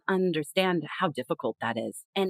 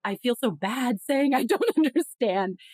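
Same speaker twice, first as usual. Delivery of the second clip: embarrassed; 2 semitones higher than usual. Retold or imitated. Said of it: "we start getting really embarrassed".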